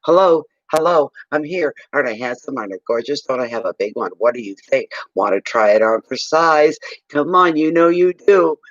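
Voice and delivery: pushy, pleading suitor; eager show-off voice. Retold or imitated. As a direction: beg for attention, playful. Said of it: "he was running alongside of her".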